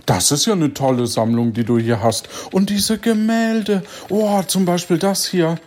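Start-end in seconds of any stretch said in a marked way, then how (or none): 2.5-5.6 gushing awe. Acted. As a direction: swoon over the paintings. Admiring the stolen art.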